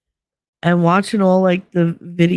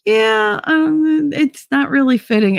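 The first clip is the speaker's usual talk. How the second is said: mocking a critic; 9 semitones higher, slower than usual. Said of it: "Winning was like".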